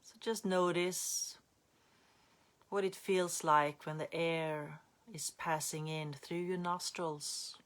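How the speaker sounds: unhurried guiding voice with long pauses; calm meditation teacher, phrase by phrase; guided meditation. Real, not acted. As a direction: ease listeners gently into breath awareness.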